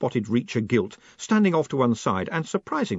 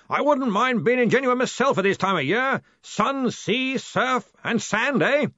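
high, hearty long-distance call; hollering; 13 semitones higher than usual. A narrator's reading. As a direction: holler through cupped hands. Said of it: "cupping his hands to increase the volume".

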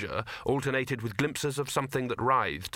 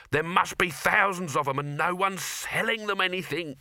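lightly voiced higher street hawker; a hint of a sighing market trader; mild Cut Me Own Throat; 7 semitones higher than usual. Cut Me Own Throat sighing at the unsold crowd, higher hawker voice.

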